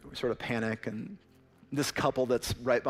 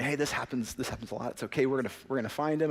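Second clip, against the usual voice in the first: calm reassurance; faster than usual. Retold or imitated. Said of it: "way too calm for this".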